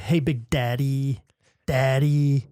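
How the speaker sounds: a hint of Minnesota, "Hey, Big Daddy" drawn out slowly; mild Minnesota accent. The speaker imitating his Minnesota friend, a slow, low, mild Minnesota accent. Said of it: "And he kinda says".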